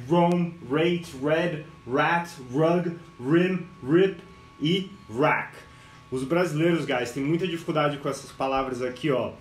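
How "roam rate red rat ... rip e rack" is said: drilled list of English R words, one by one. Shown as a demonstration. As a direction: say each word separately with an English r. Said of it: "as palavras com R".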